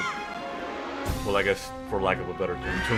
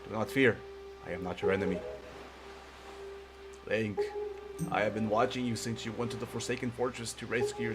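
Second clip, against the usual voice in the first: put-on wise old man voice. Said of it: "a more wise old man voice".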